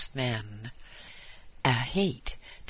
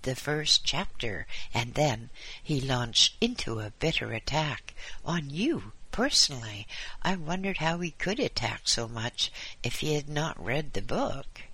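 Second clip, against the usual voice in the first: lightly raised fussy voice; gossipy visitor; 3 semitones higher than usual. Acted.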